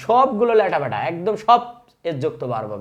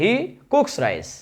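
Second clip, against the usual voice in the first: teacher modelling he cooks rice very slowly; very slow model; 4 semitones higher, much slower than usual. Shown as a demonstration. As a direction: stretch out "he cooks rice" word by word. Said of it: "দেখো এখানে খেয়াল করো".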